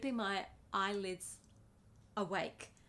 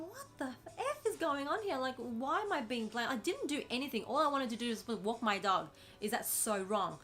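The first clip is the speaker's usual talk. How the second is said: pitched-up, exasperated disbelief; indignant inner voice; 4 semitones higher, 4 dB louder than usual. Retold or imitated. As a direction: voice the unfairness of being blamed, rising high. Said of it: "I'm thinking".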